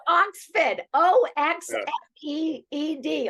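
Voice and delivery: "Oxford" said high and loud as "Oxfeed", spelled out slowly; mock the New England "Oxford"; local Oxford pronunciation. Shown as a demonstration. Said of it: "Oxford is the way they say it".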